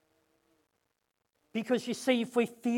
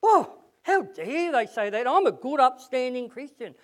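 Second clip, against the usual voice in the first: self-righteous mock; 2 semitones higher than usual. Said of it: "and think".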